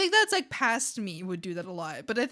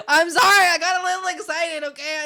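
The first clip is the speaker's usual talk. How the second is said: mock crying apology; 7 semitones higher, 12 dB louder than usual. Apologizing after over-excited greeting.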